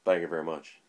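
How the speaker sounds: lightly voiced rock-and-roll idol catchphrase; a hint of a celebrity impersonation; a rock-and-roll singer. Vlogger greets viewers with his impersonation, lightly done. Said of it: "That's my singer impersonate".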